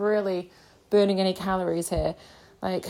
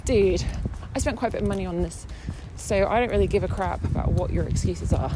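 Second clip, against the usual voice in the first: fast, fed-up imagined rant at the cobbler; imagined telling off; faster than usual. Pretend. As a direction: snap at him the way you wish you had. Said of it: "obviously didn't say that".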